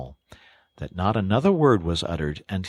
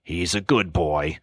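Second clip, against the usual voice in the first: put-on a solemn old friend confiding; grave Badger. Badger tells of Toad's father.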